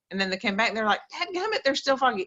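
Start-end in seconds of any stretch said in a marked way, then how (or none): 1.1-2.2 mock angry voice, higher pitch. Retelling what people said when it didn't work: imitating an angry person. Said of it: "Those people were pissed".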